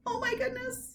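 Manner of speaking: high, hushed shock; shocked gasp. Acted. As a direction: gasp it out amazed. Shocked exclamation.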